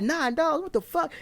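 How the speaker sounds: very high incredulous question; shocked friend. Retold or imitated. Friend hearing about the nine dollars, shocked. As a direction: imitate a friend in disbelief.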